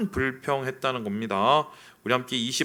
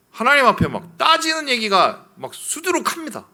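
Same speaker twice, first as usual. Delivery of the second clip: excited; 12 semitones higher, 6 dB louder than usual. Real, not acted. Excited emphasis.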